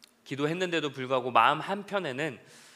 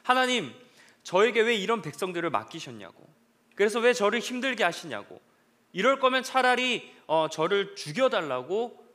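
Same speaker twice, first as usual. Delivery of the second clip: exasperated protest; 4 semitones higher, 3 dB louder than usual. Retold or imitated. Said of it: "모세도 나름대로 이유가 있어요".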